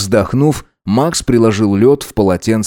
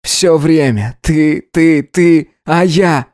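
higher, slow, hammered-out reproach; bitter complaint; 6 semitones higher, much slower than usual. A narrator's reading. Gideon reproaches self-centred Alex, bitterly frustrated. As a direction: hammer out each word in mounting frustration.

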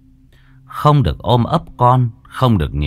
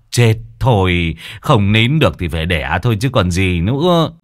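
grudging neighbour; 4 semitones higher than usual. Acted. Neighbour agrees to drive wife to clinic, grudging. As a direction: give in, hurry him along, then ease off.

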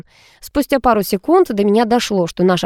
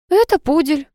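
innocent; 8 semitones higher than usual. A narrator's reading. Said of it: "простодушно ответила я".

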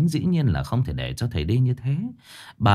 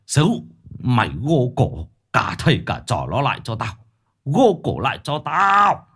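angry master. Acted. Angry master confronts blind man.

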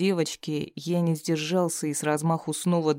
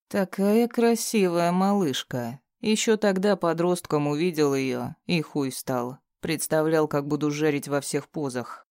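sneering captive villain. Acted. Bound thug taunting his captor, mocking sneer. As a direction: jeer at him, barely altered voice.

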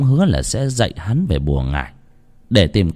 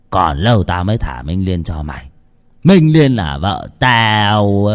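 slow, drawn-out taunt; insolent sneer; 2 semitones lower than usual. Acted. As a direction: rub it in, savoring each word. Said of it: "nham nhở". (giọng nham nhở, kéo dài chậm rãi)

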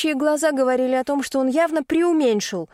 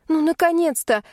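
higher, relieved exclamation; 5 semitones higher than usual. Acted. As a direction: cry it out at Rudolf's arrival. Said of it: "воскликнула я". (облегчённый возглас, выше)

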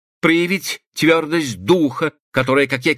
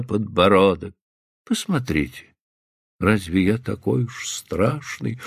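gentle coaxing; 6 semitones lower, slower than usual. A narrator's reading. Man coaxing her to look.

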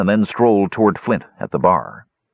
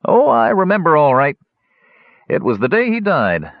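higher, lightly voiced wry innkeeper; a hint of a laughing old host reminiscing; innkeeper Muldoon; 5 semitones higher than usual.

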